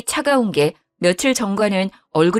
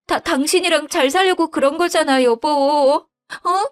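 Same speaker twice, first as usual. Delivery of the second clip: put-on higher, flustered young wife making excuses; pleading wife; 8 semitones higher than usual. Wife justifying loans. (당황해서 변명하는 며느리 목소리)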